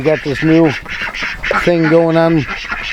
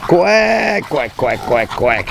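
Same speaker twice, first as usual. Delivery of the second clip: duck call; 4 dB quieter, much slower than usual. Real, not acted. Calling ducks to the pond.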